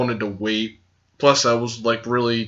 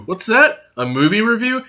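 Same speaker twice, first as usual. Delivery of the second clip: higher-pitched questioning voice with a rise; mock surprised question; 8 semitones higher than usual. Playing a puzzled listener. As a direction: viewer asking back about the movie review, in mock surprise. Plays a listener asking back.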